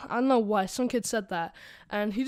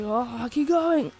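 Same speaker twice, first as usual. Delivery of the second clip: mock moaning; 3 semitones higher, 5 dB louder, much slower than usual. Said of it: "he was like".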